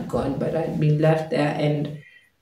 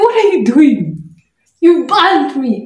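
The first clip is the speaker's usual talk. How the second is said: high, loud mock scream of outrage; retold scream; 11 semitones higher, 5 dB louder than usual. Scalded girl to the house help, retold scream. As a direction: act out a pained, accusing shriek. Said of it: "I screamed".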